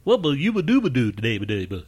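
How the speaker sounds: high, mushy cartoon voice full of 'ba'; Mush Mouth impression. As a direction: chew the words like Mush Mouth. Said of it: "the mush mouth on Fat Albert".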